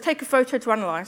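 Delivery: ordinary talk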